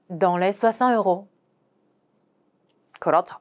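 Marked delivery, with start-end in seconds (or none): 0.1-1.3 slow careful French; slow model sentence; slow repeat. Shown as a demonstration. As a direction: repeat slowly. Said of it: "이런 식으로 말하는 거죠".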